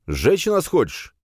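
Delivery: high, drawn-out outraged question; indignant shout. A narrator's reading. Hero challenges the priest over burning, shouting high. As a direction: yell it, stretching the words. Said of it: "закричал я".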